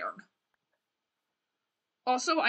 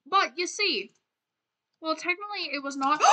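higher-pitched, badly faked British; bad British accent; 4 semitones higher than usual. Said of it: "the worst British accent ever".

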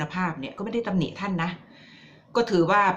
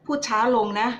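lightly voiced plea, a bit higher; public's plea to the PM; 4 semitones higher than usual. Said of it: "ไอ้ที่บอกว่าพูดช้าลงเนี่ย".

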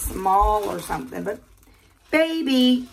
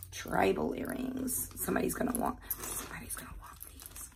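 hushed whisper to herself; whispering over a find; 12 dB quieter than usual. Real, not acted. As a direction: breathe the words out softly, unvoiced.

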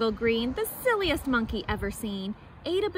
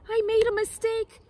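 higher, pleading lion voice; apologetic lion; 4 semitones higher than usual. Acted. Lion apologises to Monkey, sheepish plea. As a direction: beg sheepishly for cake.

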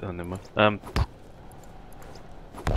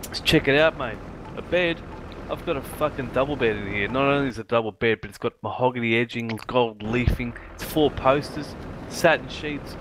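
boastful rich bloke; 3 semitones higher than usual. Retold or imitated. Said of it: "boasting about his bed".

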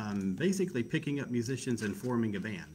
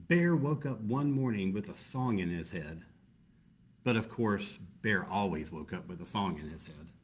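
story narration. Acted.

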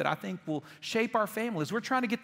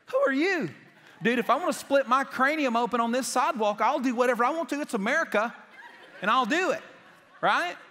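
loud, laughing mock outrage at a helmet bully; mock indignant; 3 semitones higher, 4 dB louder than usual. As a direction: puff up and rant, half laughing. Indignant comeback to biker bully.

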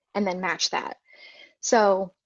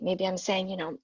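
ordinary talk, nothing marked

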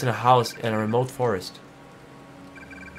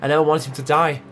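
sad confession. Acted. Confessing guilt and love.

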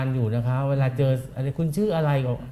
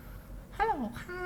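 much higher, soft, slow squeezed lady voice; fake woman's voice; 14 dB quieter, much slower than usual. Host answering a friend's call, faking a woman's voice. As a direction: squeeze your voice into a dainty woman's hello. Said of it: "ฉันก็ทำเสียงผู้หญิงรับ".

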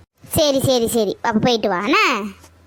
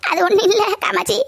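words through an amused chuckle; laughing; 3 semitones higher than usual. Acted. Grandmother explains she was playing with granddaughter, laughing. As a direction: chuckle while owning up.

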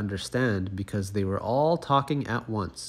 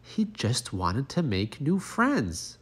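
gentle wise beetle; 3 semitones higher, slower than usual. Acted. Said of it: "said the wise old beetle".

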